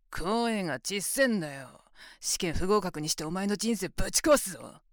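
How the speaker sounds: sneering, taunting push; impatient domineering taunt; mocking scold. Scolding him for being quiet.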